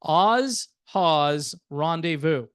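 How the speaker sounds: a light Southern drawl on Oz Haw's Rendezvous; Southern accent. Shown as a demonstration. Host jokes about the band name in a mild Southern accent. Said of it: "I might do it in the Southern accent".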